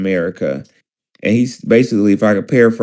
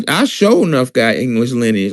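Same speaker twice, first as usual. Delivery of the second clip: grandmama voice. Retold or imitated. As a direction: talk like your old grandmama. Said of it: "I'm talking like my grandmama now".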